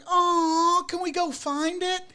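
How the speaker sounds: very high, cooing mock delight; squeaky-high eager impression; imitated excited partner. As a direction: mimic a thrilled, high-pitched plea. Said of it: "she was all excited for the bat".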